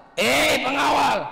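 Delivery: furious shout, pitched high. Telling a children's story, voicing King Abraha calling his guard: furious king shouting. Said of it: "Hari itu dia marah besar".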